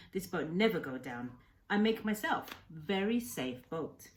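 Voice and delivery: lightly voiced old fisherman, eager and kind; old Japanese man, broken English. Old man cheerfully explaining fishing to the boy, lightly accented. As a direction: speak as a proud old man telling the boy his plans. Kensuke boasting of boat.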